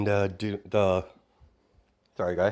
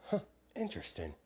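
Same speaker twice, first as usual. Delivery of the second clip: much softer, quicker murmur; soft aside; 2 semitones lower, 12 dB quieter, faster than usual. Acted. Young Lilith watching Toga, softly intrigued. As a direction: muse quietly to yourself. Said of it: "as she's like".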